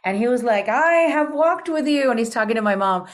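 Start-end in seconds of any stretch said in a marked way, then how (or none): 0.7-2.1 put-on raised, louder, grand old Spanish gentleman; higher and louder Old World Spaniard speaking. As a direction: intone it like a ghostly conquistador. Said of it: "speaking in what I call Shakespearean Spanish".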